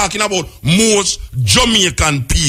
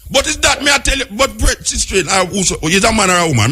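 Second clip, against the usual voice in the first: much higher pitched, exasperated challenge; heated quarrel; 5 semitones higher than usual. Real, not acted. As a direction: fire the question back, worked up. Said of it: "You quarrel from ten o'clock".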